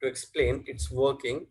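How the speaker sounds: words spaced out for notes; teacher dictating at writing speed; slow dictation. Shown as a demonstration. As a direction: dictate slowly so students can write. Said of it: "teacher dictating slowly".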